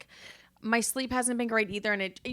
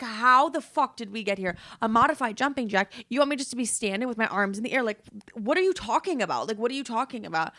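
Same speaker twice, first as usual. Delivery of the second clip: exasperated outburst; 3 semitones higher, 3 dB louder than usual. Retold or imitated. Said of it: "I wanted to punch her in the face".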